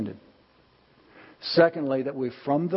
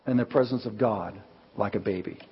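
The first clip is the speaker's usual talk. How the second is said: struggling through tears; 4 semitones lower than usual. Retold or imitated. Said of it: "He struggled to get the last words out".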